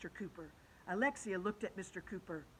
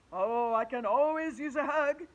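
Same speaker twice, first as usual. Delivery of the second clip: reasoning teacher; 4 semitones higher, 8 dB louder than usual. Acted. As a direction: explain it patiently like a big teacher. Teacher accepts hug.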